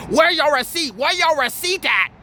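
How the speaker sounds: clipped mock shopkeeper demand; mocking the lady asking for his receipt; mock Asian accent.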